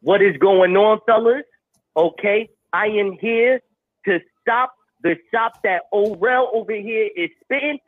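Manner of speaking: loud, hyped wrestling promo. Acted. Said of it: "why he cutting a promo".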